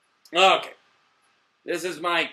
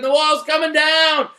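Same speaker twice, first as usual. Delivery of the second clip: high, loud triumphant shout; shouting it, higher and louder; excited shout; 10 semitones higher, 7 dB louder than usual. Real, not acted. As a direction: crow it like you called it. Repeating his own prediction.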